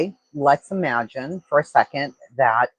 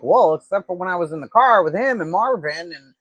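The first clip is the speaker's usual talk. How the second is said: mocking backpedal; 5 semitones higher than usual. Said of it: "he's like".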